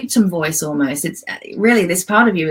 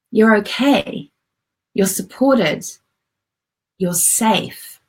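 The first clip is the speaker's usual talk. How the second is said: reassuring adult self. Shown as a demonstration. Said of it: "adult you says".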